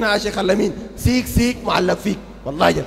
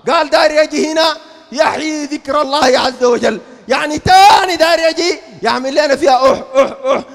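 mocking shout; 3 semitones higher, 6 dB louder than usual. Preacher mocking sheikh's return.

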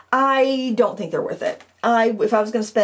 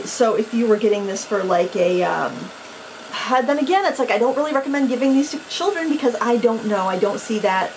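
stumbling over words. Real, not acted. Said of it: "if I sound kinda numb, but stumbly".

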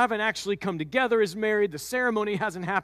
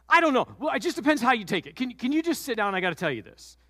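nervous Mary; 4 semitones higher, faster than usual. Acted. Mary hedging, asking him to sit.

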